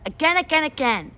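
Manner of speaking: put-on high, excited toddler chant; eager toddler. Toddler Fudge begging to try again, high and eager. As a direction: bounce with eagerness.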